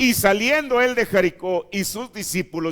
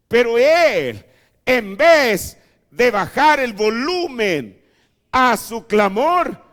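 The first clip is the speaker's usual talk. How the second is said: slow preaching build; 3 semitones higher, 4 dB louder, slower than usual. Acted.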